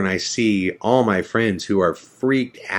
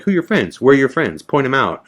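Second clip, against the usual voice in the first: shouting interrogation; 5 semitones higher, faster than usual. Retold or imitated. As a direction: yell it like a border cop. Officers pressing him hard.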